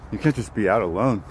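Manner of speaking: rough, half-hearted Aussie voice; mock Australian warning; attempted Australian accent. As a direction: imitate a concerned Australian, accent loosely done. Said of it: "too early for Australian accents".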